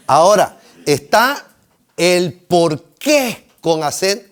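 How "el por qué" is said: "el por qué" slowly, QUÉ stressed; accent on final E. Shown as a demonstration. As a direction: lean hard on QUÉ in "el por qué". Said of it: "pero con acento en la E".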